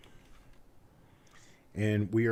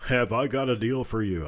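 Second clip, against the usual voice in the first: used car salesman; 2 semitones higher than usual. Acted. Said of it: "I sound like a used car salesman".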